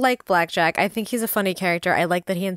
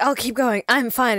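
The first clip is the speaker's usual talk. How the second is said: insisting he's fine; 6 semitones higher, 5 dB louder than usual. Retold or imitated. Blackjack exhausted quote.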